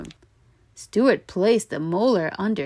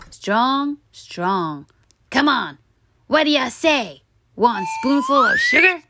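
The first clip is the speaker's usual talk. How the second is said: higher coaxing tooth; urging tooth; 6 semitones higher, 3 dB louder than usual. A narrator's reading. Tooth urges Stuart at breakfast, coaxing. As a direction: nudge him along, teasing. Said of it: "urged the tooth".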